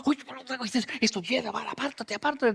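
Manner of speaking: hushed disgust, backing away; disgusted murmur. Acted. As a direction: crowd wrinkling noses at the smell. Crowd voiced recoiling from smell.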